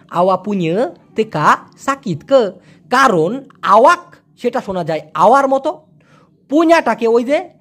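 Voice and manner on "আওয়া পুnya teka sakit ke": slow, আওয়া and teka with finals dropped, ke at the end; smooth it out, swallow the k sounds; Malay pronunciation. Shown as a demonstration. Teacher models how Malaysians actually say it. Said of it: "দেখেন কি বলে".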